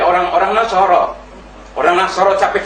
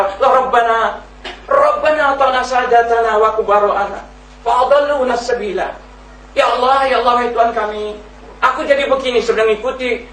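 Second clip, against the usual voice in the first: high, pleading lament; desperate plea for mercy; 6 semitones higher than usual. Acted. Sinner in hell begging God for relief, high pleading lament. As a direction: beg your Lord to lighten the punishment. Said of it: "ingin dapat keringanan dari dia".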